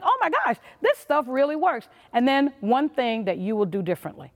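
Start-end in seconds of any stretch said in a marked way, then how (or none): 0.0-1.9 much higher, gushing mock delight; thrilled discovery. Speaker imitates an attendee whose new ideas finally work, giddy mock delight. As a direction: squeal it like a happy convert. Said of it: "You're like".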